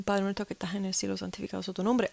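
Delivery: praying. Retold or imitated. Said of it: "I'm doing".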